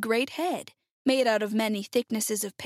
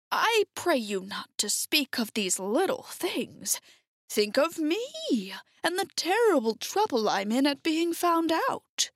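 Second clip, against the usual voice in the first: slow, drawn-out plea, climbing higher; self-pitying humbug wizard; 5 semitones higher than usual. Acted. Oz lamenting his trouble to friends, slow self-pity. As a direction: plead for sympathy, lingering on words. Voices Oz beside narration.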